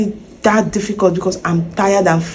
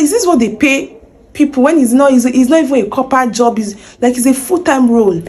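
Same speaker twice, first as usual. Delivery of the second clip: higher, indignant ranting; retold outrage; 4 semitones higher than usual. Complaining to herself about the pay, higher indignant rant. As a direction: let the old anger rise again. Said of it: "I was very angry".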